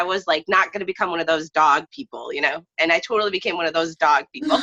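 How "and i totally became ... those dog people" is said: fast, laughing admission; giggling through the punchline. Real, not acted. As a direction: laugh at yourself as you confess it. Self-mocking admission, laughing.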